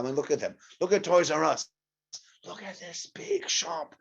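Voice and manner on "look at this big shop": put-on high, slow, awed kid voice; childish wonder. Kid in awe of the big toy shop, high and slow. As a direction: marvel at it like a child.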